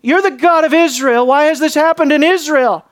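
loud indignant complaint to God; accusing. Retold or imitated. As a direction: throw the blame up at heaven. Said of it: "the accusation there".

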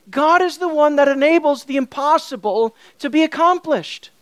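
firm, lifted proclamation; emphatic preaching. Real, not acted. Preacher proclaiming God's sovereign lordship, emphatically. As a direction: declare it with conviction.

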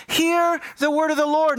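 imitated prophet's call. Prophet Hosea cupping his hands to the people, calling out. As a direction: call out like a herald, hands cupped. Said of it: "cupping his hands and he's saying".

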